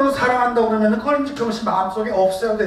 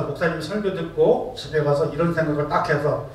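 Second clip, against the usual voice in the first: usual speaking voice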